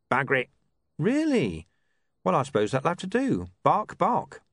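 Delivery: put-on high, rough-edged old tramp; old beggar's voice. Foul old Ron bickers with his dog in the street, high and muttering.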